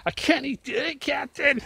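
high-pitched mock Scottish engineer; Scottish accent. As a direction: put on a squeaky hammed-up Scottish voice. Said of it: "I went Scottish in the end".

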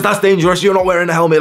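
high, loud scolding woman, hammed-up; imitating a stranger yelling at skating kids; mock scream. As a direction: play the shrill busybody yelling at the kids. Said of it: "starts screaming at him".

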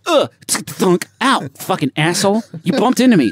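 high strained dying voice; dying soldier voice. Pretend. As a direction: whine it out, dying. Acting fallen soldiers bumping.

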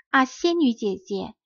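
stunned recognition, voice climbing; astonished cry. A narrator's reading. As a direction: gasp out the fairy's name in disbelief. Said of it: "匹诺曹大声喊道".

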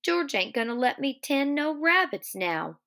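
acted forlorn worry; miserable. A narrator's reading. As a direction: pitch it up in understated misery. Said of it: "Lenny explained miserably".

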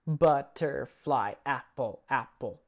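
slow counting words. Shown as a demonstration. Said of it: "We use the word butterfly".

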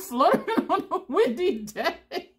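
giggling mockery of fluttering lashes; laughing. Real, not acted. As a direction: laugh through the punchline. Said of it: "I'm laughing too much".

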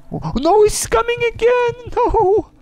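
squealing in terror while running from the monster; terrified shrieking. Real, not acted. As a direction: shriek and flee in real fear. Fleeing the spider slasher.

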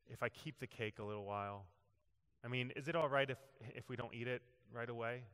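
soft and slow. Retold or imitated. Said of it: "she slowly and softly said".

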